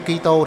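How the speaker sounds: "Kitô" stretched into four syllables, Ki-ri-xi-tô; slow, syllable-by-syllable old form of "Kitô"; old-style pronunciation. Shown as a demonstration. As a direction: say "Kitô" slowly as Ki-ri-xi-tô. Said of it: "thì chúng ta đọc là Kitô".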